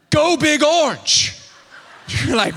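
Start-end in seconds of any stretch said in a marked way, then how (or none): 0.1-1.3 a slow, higher fan's yell; yelled cheer. Retold or imitated. A preacher reliving yelling a team cheer at his hero. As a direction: belt it out like a starstruck fan. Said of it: "I just yelled out".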